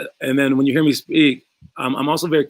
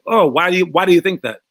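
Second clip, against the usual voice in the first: calm referee; 3 semitones higher, 3 dB louder than usual. Pretend. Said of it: "he'll probably be like".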